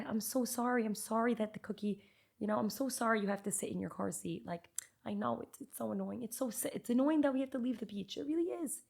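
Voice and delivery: put-on gentle, sympathetic parent soothing a crying child; validating parent. Shown as a demonstration. Parent comforting a crying daughter over cookies, sympathetic and gentle. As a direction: soften and mean every word, staying with her. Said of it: "I'm setting the boundary, but I'm genuinely there".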